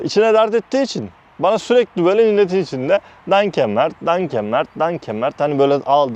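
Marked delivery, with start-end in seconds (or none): 3.3-5.4 mocking imitation of the boss's thanks. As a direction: tease him with a fake thank-you. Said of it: "dalga geçermiş gibi".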